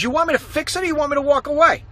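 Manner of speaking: mechanic's attitude. Retold or imitated. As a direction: dare him to refuse. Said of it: "with an attitude".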